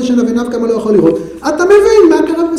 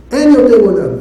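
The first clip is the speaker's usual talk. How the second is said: louder, forceful cry on אין; loud lament; 5 dB louder than usual. Shown as a demonstration. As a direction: proclaim it loudly, stressing אין. Loud repeat of same lament.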